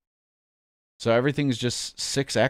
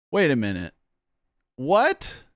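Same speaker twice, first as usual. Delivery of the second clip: shocked. Real, not acted. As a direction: jolt of disbelief. Sudden shocked news reaction.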